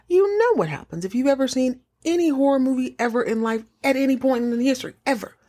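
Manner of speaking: high, fast rising excitement; excited buildup. Real, not acted. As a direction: build the suspense eagerly. Excited buildup to horror cliché.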